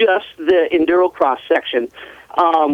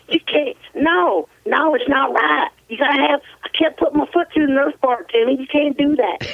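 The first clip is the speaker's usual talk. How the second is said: higher-pitched imitation of a thick foreign accent; Santo's thick accent; 8 semitones higher than usual. Friend calling Timmy back the next day, imitated in a thick accent. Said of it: "He goes".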